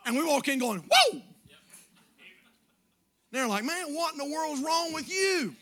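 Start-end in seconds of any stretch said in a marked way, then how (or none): 0.8-1.2 joyous whoop, very high and loud; excited whoa. Retold or imitated. Acting joyful entry at work. 3.6-5.6 puzzled coworker. Retold or imitated.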